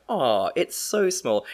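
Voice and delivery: lightly mimicking the audience, slow; mock viewer. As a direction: drag it out like a sceptical viewer. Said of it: "I bet you all just went".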